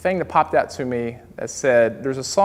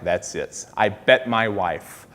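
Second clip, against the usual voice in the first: customer voice; 6 semitones lower, 4 dB quieter, slower than usual. Retold or imitated. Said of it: "He's like".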